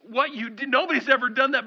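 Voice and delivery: stammering, breaking off in astonishment; speechless amazement. Acted. Awestruck follower faces Jesus after his feat, speechless amazement. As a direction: stumble over words, dumbfounded. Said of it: "you should just be speechless".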